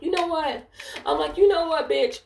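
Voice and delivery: high-pitched, fed-up retort; defiant outburst. Retold or imitated. Agent snapping back at supervisor after threat, defiant. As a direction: re-enact losing patience, pitch shooting up.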